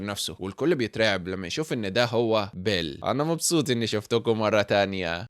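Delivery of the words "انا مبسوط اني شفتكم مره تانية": slow, menacing villain voice, savouring the reunion; villain's reveal. A narrator's reading. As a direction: greet old teammates as the returned monster. Villain Bel reveals himself. (صوت شرير بطيء بيستمتع بالمفاجأة)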